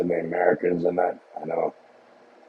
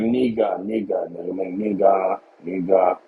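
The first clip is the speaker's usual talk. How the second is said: mock Mandarin filler; much slower than usual. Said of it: "I'd be like".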